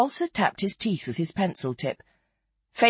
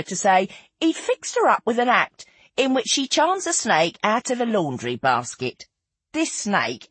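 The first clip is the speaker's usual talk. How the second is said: animated raconteuse, rising high in places; lightly voiced theatrical gossip; Feathers, lively storyteller; 3 semitones higher than usual. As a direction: relish every turn of the anecdote. Narrator voices Feathers resuming her tale.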